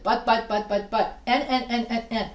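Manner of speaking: same word repeated in a steady run; mimicked redundancy. Teacher mocking redundant student essays, monotonous repetition. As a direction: rattle off each repeat like a stuck record. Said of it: "their essays sound so redundant".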